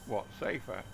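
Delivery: high incredulous squeak; mock offended, high; indignant surprise. Real, not acted.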